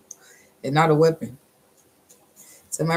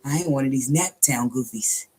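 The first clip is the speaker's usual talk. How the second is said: imitating ex's line. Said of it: "That was his favorite thing to tell me".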